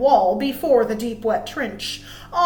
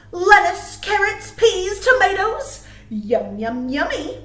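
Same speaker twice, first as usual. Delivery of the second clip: higher, eager list of vegetables; delighted listing; 6 semitones higher, 4 dB louder than usual. A narrator's reading. Reading the gardener dreaming of vegetables, higher and eager. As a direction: savour each vegetable name. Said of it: "said Mister McGreely".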